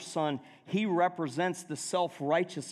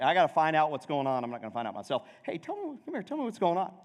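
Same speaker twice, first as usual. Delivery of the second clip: put-on nosy older brother; faster than usual. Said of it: "It's like".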